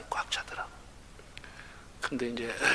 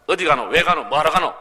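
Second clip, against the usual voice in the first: louder Gyeongsang questions ending in 가노; Gyeongsang dialect; 7 dB louder than usual. Shown as a demonstration. Pastor showing congregation Gyeongsang 노 endings, firm dialect. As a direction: rattle off the 노 endings like a local. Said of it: "요런 건 좀 노자로 끝납니다".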